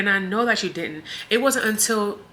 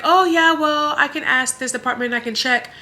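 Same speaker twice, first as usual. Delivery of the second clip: mocking nurse; 7 semitones higher, 5 dB louder than usual. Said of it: "And she's like".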